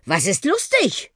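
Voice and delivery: mildly winded question; a little out of breath, rising in pitch; slightly breathless. A narrator's reading. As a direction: ask with a touch of puffing. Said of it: "fragte der Buschi etwas außer Atem".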